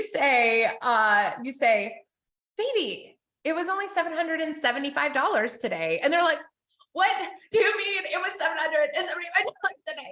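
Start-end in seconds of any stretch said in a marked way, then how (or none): 2.6-6.0 lightly voiced, higher coaxing reply; sweet-talking spouse. Telling spouse the Target total, in a light coaxing voice. 6.9-10.1 higher, faster disbelieving question; shocked spouse. Retold or imitated. Spouse hearing the Target total, with mock shocked disbelief.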